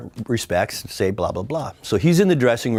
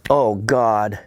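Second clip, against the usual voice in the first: mock horror; slower than usual. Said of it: "in mock horror watching this".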